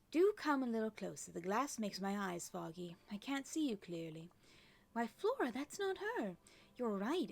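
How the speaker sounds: lilting, fussy good fairy, lightly put on; a hint of a genteel aunt, pitch swooping; lightly voiced fairy aunts. Fairy aunts puzzle over an unexpected visitor, lightly acted lilt.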